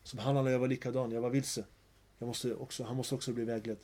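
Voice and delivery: soft, modest self-reminder; humble reflection. Retold or imitated. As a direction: think it humbly to yourself. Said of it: "så ska man tänka".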